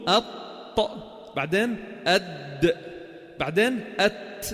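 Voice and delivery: أط, أد, أت slowly from the gum ridge; letter sounds demo. Shown as a demonstration. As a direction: tap the tongue behind the upper teeth for أط أد أت. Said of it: "بأصوله من فوق". (نطق أط أد أت ببطء)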